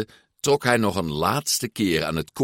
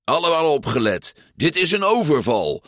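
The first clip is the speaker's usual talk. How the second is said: higher, fast mock-gruff villain; a boy playing a hammed-up bad guy; 7 semitones higher than usual. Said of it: "met een barse stem".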